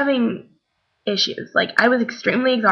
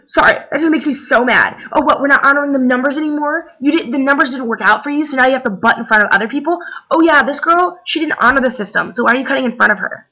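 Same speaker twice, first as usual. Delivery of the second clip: higher-pitched mock indignant rant; retold going ape; 4 semitones higher than usual. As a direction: imitate a girl telling off line-cutters. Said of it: "went ape".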